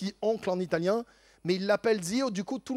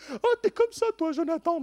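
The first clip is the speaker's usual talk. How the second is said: thrilled friend; 5 dB louder than usual. Retold or imitated. Benjamin leaving the barber's, gushing to Jonathan. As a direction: rave about it, amazed.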